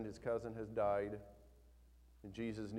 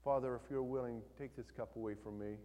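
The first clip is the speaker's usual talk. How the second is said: calm reading. Shown as a demonstration. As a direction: read it like a serene pretty picture. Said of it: "We read it like this, like we just read it".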